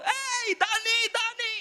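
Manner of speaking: high-pitched call to a player; a fan yelling to a player from the stands; fan shouting. Retold or imitated. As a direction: call out to your favorite player. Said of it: "Sumisigaw ako dun sa mga taong".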